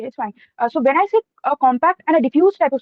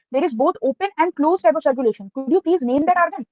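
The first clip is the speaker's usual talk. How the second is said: a little more volume, repeating the question clearly; a bit louder. Real, not acted. Examiner repeating a question for a student who couldn't hear, a bit louder. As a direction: speak up slightly for the listener. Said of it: "can you please speak a bit louder".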